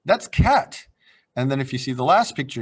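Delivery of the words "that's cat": put-on high, slow, delighted child voice; drawn-out discovery, ah that's cat; child realizing. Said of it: "and then he's gonna say".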